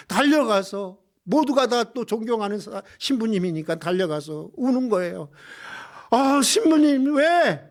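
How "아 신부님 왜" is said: high, emphatic pleading challenge; impassioned retold outcry; acted demanding protest. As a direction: cry out in protest as the nuns, demanding an answer. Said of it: "막 따져 묻는 거예요".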